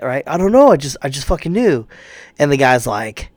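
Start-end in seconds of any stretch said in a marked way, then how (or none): 0.3-1.9 higher, louder, mock panicky stammer; a hint of nervous excuse-making; mock scared. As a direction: play the scared student caught out. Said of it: "he's all scared and shit".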